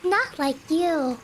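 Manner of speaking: lightly voiced calm cult mother; creepy calm cultist. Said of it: "this cultist voice is too good".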